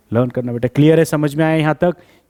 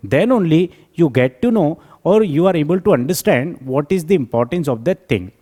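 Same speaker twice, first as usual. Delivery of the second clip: slow dictation; much slower than usual. Acted. Reads summary aloud slowly.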